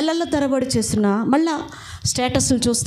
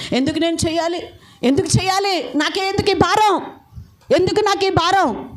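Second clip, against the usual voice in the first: rising lament; 6 semitones higher than usual. Retold or imitated. Pastor's lament to God, rising.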